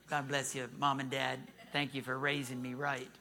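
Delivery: low, soft thanks to parents; real grateful aside. Real, not acted. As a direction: drop low and quiet to bless Mom and Dad. Aside thanking his own parents.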